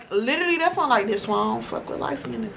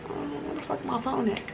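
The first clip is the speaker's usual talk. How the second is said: higher, softer panicked mutter; mock panic; 4 semitones higher, 9 dB quieter than usual. Realizing at her car the phone is gone, mock panic. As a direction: retell the moment the phone went missing.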